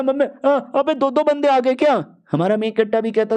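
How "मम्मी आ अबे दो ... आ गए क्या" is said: high, alarmed yelp at two attackers; a jumpy henchman suddenly outnumbered; startled cry. Acted. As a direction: caught off guard, pitched up in panic. Enemy startled by second attacker.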